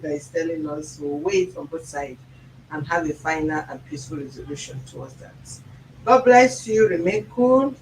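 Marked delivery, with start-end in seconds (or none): 6.0-7.7 hearty sign-off. Real, not acted. Sign-off blessing.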